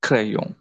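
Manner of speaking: క్రయాన్ with a nasal end and no N; French crayon. Shown as a demonstration. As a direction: say క్రయాన్ without sounding the N. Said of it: "N is not spelled here". (క్రయాన్ N పలకకుండా)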